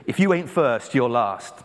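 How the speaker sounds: lightly put-on American film-quote voice; American accent. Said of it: "doing a really bad American accent".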